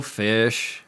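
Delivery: ordinary talk, nothing marked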